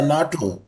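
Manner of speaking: "nato" run together as a single word; "nato" in two syllables, like a name; said as one word. Shown as a demonstration. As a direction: say "nato" as a word, without spelling the letters. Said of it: "These are all we pronounce as a one word".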